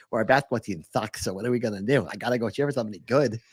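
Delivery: lightly voiced low fan excuse; Nebraska fan character. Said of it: "Do they all talk like that?".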